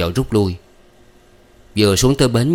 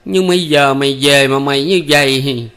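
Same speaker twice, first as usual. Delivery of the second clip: higher, louder lamenting mother; still wailing; 6 semitones higher, 4 dB louder than usual. A narrator's reading. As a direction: keep up the loud lament. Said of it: "vẫn bù lu bù loa".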